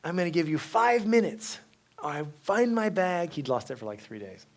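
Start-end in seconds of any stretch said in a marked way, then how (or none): 0.0-3.3 ultimatum. Retold or imitated. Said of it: "I told Saint Anthony".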